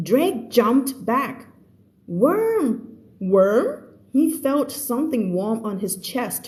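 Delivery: slow, deliberate narration with lifted key words; story read-aloud. Acted. Teacher reading the story to her students, slow read-aloud. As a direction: read the story slowly and clearly for learners.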